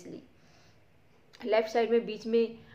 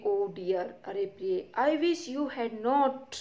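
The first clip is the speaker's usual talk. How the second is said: nervous; much slower than usual. Acted. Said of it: "nervously".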